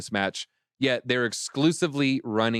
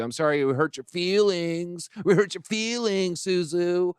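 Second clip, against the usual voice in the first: sarcastic apology; 5 semitones higher than usual. Pretend.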